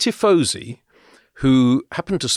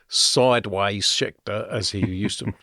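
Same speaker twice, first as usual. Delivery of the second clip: accidental Australian accent. Real, not acted. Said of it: "I did that in an Australian accent".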